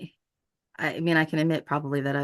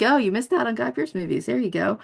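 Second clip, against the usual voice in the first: higher-pitched mock recommendation; playfully sarcastic, pitched up; 6 semitones higher than usual. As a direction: offer it up with light sarcasm. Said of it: "I'll be sarcastic and I'll be like".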